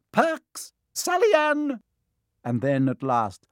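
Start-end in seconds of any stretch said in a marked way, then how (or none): 0.1-1.8 high, loud roll call of names. A narrator's reading. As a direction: read each name to the hall. Calling names.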